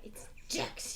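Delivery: low, quiet growl. A narrator's reading. Boy correcting his misheard name, low quiet growl. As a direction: growl it under your breath. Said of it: "he growled".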